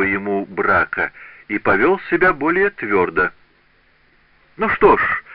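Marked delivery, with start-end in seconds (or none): 4.6-5.2 high, bright-spirited "Ну что ж"; cheerful exclamation. A narrator's reading. Apprentice cheerfully defying his master, exclaiming merrily. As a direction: toss it off merrily, suddenly bold. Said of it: "воскликнул он весело".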